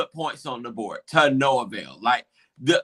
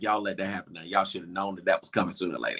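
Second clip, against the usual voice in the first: retold grumble; 11 semitones lower, 6 dB quieter, much faster than usual. Retelling shocked grumble at the team.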